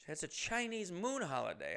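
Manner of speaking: half-hearted Chinese accent imitation. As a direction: quote her lightly in a Chinese accent. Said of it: "does have a thick Chinese accent".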